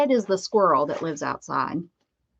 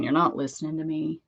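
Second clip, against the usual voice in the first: dog's moan; 3 semitones lower than usual. Retold or imitated. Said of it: "hear him moan like".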